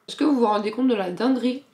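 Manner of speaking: excited stage whisper; loud whisper. Acted. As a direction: whisper it with hype. Hyped disbelief about album.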